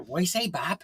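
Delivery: soft grinning "What you say, Bob"; Adam's grinning greeting. Retold or imitated. Mimicking Adam's greeting with a sly grin. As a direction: say it with a shit-eating grin. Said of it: "the way Adam would say it".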